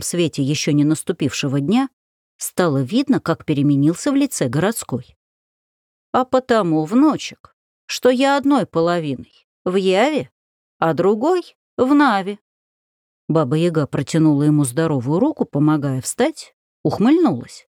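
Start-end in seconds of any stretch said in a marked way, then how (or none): 6.1-12.4 старушечий голос. Acted. Баба Яга отвечает внуку.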